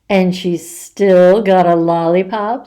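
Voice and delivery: a lightly voiced wicked old woman; a hint of a mean old lady. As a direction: sneer it like an old witch. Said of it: "It sounded like a wicked old".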